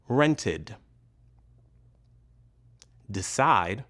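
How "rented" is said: "Rented" ending in id. Shown as a demonstration. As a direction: say "Rented" with an extra final syllable, id. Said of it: "So we pronounce the E D ending".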